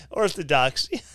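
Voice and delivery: repeating orthodoxy through a laugh. Real, not acted. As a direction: scoff at the word Orthodoxy while laughing.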